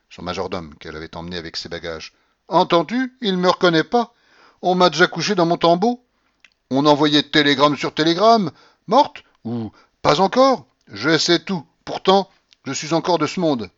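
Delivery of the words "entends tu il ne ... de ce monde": put-on loud, high, imperious old lady; old grandmother shouting. A narrator's reading. Grandmother shouting at the stunned tutor, imperious and loud. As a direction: bark at him like a domineering grandmother.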